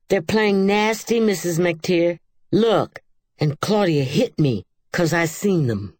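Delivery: loud, high gloating tattle; girl telling on the sisters; tattling. A narrator's reading. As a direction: rush to get them in trouble. Rosemary tattling to Mama.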